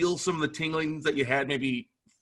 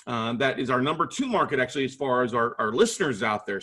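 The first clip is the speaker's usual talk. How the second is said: ordinary talk, nothing marked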